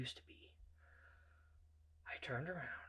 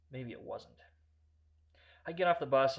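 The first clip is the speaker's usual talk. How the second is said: ordinary delivery, nothing marked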